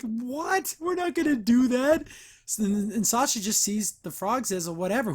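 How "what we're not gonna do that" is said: higher-pitched mock disbelief; shocked refusal. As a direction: balk at it, voice jumping up. Anne recoils at the plan.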